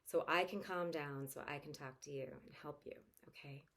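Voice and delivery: softening toward a gentle okay; dad calmly explaining the deep breath; calm reassurance. Shown as a demonstration. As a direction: fade into calm as you reassure.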